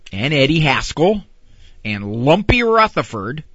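ordinary talk, nothing marked

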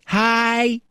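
ordinary delivery

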